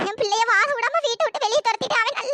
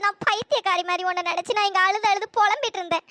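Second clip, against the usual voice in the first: crying; 3 semitones lower than usual. Acted. Jilted wife weeps over husband.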